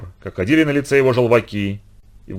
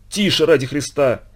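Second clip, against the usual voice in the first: nervous informant; 4 semitones higher than usual. Acted. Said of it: "залепетал Кирилл Спиридонович, испуганно оглядываясь".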